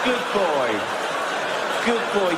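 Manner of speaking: praising a dog. Acted.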